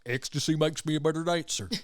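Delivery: lightly done Southern effeminate guy voice. Retold or imitated. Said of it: "Southern effeminate guy voice".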